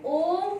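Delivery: ओम with a long held ओ; drawn-out ओ. Shown as a demonstration. Teacher showing pupils the long vowel, drawn-out ओम. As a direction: stretch the ओ in ओम. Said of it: "ओ का उच्चारण दीर्घ समय के लिए होता है".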